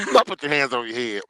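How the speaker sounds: coughing, then hoarse; choked, raspy after coughing; coughing up water. Real, not acted. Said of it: "Water went down the wrong pipe".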